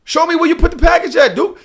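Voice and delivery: high-pitched, pestering insistence; worked-up, squeaky-high complaint; agitated retold demand. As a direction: act out demanding answers from the driver. Retells demanding to see the package.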